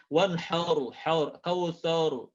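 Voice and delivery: "wanharu, haur, kausaru" with the A rounded toward O; the A in "haur" and "kausaru" darkened to O; faulty fathah vowel. Shown as a demonstration. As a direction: say "wanharu" like wanhoru, "kausaru" like kausoru. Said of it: "vokal A-nya nggak sempurna".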